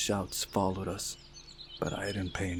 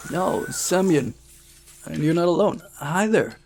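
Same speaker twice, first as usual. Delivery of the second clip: a first rough attempt at the character; first try at Semyon's friend's voice; 9 semitones higher, 7 dB louder than usual. Shown as a demonstration. Narrator's first go at the club boy's voice. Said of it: "did I butcher his voice?".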